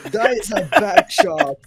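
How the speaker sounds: breathless laughing whisper. Real, not acted. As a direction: wheeze it out through laughter.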